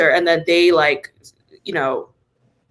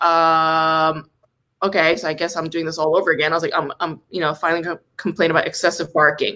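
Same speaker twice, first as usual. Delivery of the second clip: weary resignation; 5 semitones lower than usual. Retold or imitated. Acted weary repeat to second staffer.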